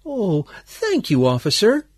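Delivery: put-on high, sweetly grateful old lady voice. A narrator's reading. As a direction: thank him in a high, smiling voice. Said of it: "looked at him with a sweet smile".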